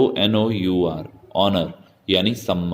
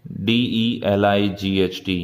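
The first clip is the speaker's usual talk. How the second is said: slow spelling out. Shown as a demonstration. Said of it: "डिलाइट".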